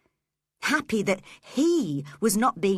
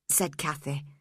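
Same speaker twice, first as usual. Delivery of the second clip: ordinary delivery, nothing marked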